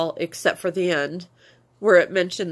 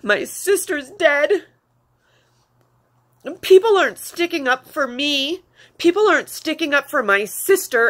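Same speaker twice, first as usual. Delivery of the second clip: raised, louder and slowed, grief-stricken protest; distraught; 5 semitones higher, 5 dB louder than usual. Real, not acted. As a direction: cry out the injustice, voice high with tears. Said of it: "I was just so distraught".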